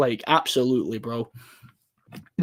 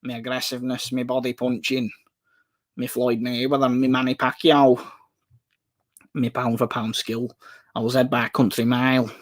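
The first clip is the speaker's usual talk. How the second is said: lightly voiced Mancunian boxer impression; a hint of northern boxer, listing in short phrases; Ricky Hatton. Streamer imagines Hatton talking boxing, light Mancunian impression. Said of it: "imagine Ricky Hatton trying to do that".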